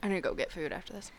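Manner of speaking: quick whispered aside; whispering. Real, not acted. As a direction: whisper it fast, off mic.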